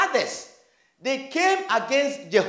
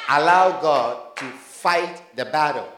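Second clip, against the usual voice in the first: proclaimed; 8 semitones lower, slower than usual. Shown as a demonstration. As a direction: ring it out to the congregation. Preacher proclaims the key phrase.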